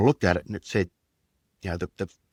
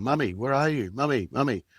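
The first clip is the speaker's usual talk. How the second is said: put-on a higher little-boy voice calling for mum, lightly done; imitating a small child; 5 semitones higher than usual. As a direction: lightly mimic a four-year-old looking for his mother. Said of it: "sort of walking around going".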